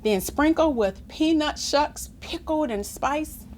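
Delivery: measured, expressive picture-book reading; story narration. A narrator's reading. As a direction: read it aloud to children with clear phrasing. Reads story aloud.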